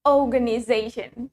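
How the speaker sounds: organization with a long O; British pronunciation. Shown as a demonstration. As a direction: model "organization" for learners, dropping the R. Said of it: "Let's say it with me".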